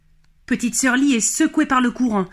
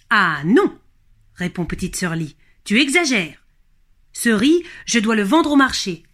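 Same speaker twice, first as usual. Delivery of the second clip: a hint of a girl's firm refusal; lightly voiced little girl saying no; Lee protesting. Lee refuses to give the dragon her rice, lightly protesting.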